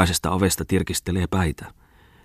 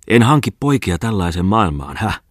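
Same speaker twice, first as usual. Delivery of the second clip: roaring bellow; 3 semitones higher than usual. Acted. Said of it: "Muttinen karjui väliin".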